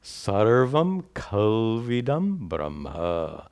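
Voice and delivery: slow, drawn-out Sanskrit recitation, "kalvidam" run together as one word; scripture recitation. Shown as a demonstration. Teacher quoting the Chandogya Upanishad to students, slow joined recitation. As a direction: recite "Sarvam kalvidam Brahma" slowly as a flowing quotation. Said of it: "it says".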